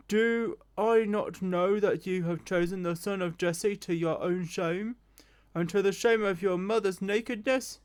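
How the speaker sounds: furious king rebuking his son, spitting the insults; a hard, slowed rebuke from an enraged father; angry king. Acted. Enraged Saul rebuking Jonathan at the feast, angry. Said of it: "Saul's anger was aroused against Jonathan".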